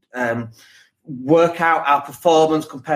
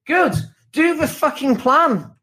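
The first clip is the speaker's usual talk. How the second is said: blunt command; 9 semitones higher, slower than usual. Real, not acted.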